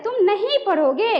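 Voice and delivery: a touch of anger, "नहीं" weighted; stress on नहीं. Shown as a demonstration. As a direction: scold lightly, leaning on "नहीं". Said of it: "नहीं पे बल पड़ रहा है". (गुस्से में "नहीं" पर बल)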